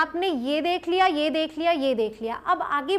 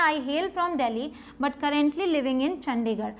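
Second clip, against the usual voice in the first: slow model sentence; much slower than usual. Shown as a demonstration. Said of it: "यहाँ आप देख सकते हैं".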